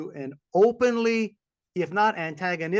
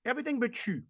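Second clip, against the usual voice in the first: imitating sweet clerks; 10 semitones higher than usual. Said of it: "To have young people saying".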